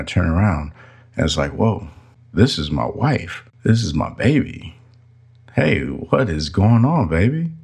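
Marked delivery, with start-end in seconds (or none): 1.5-7.5 put-on rising higher and brighter toward baby; light up like your wife just walked in; delighted greeting. Husband greeting his wife with affectionate delight.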